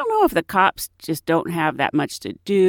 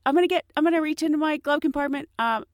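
a touch higher, fumbling, apologetic; fake nervous driver; 5 semitones higher, faster than usual. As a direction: act scared for the officer. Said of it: "I act so scared and nervous".

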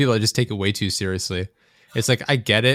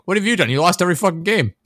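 higher, sharp mocking comeback; indignant retort; 8 semitones higher, 3 dB louder than usual. Snapping back at the classmate who questioned his school spirit, higher and indignant. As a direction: throw his words back at him. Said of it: "I'm like".

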